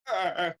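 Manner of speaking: high, short "ah" noises; mock squirming yelps. Acts out itchy dancing.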